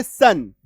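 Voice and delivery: सन said as one short syllable; ION sound demo. Shown as a demonstration. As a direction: sound out सन for the learners. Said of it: "इसका उच्चारण आता है". (सन का उच्चारण दिखाते हुए)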